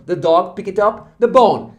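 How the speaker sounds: slow, clear English model sentence; slow model reading. Shown as a demonstration. Teacher reading the example slowly for students. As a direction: read it out slowly for learners. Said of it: "teacher models English sentence".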